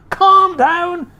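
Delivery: high, loud outraged echo; indignant cry. Acted. Mister Cranky crying back at his wife, indignant. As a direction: throw the words back in disbelief. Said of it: "cried Mister Cranky".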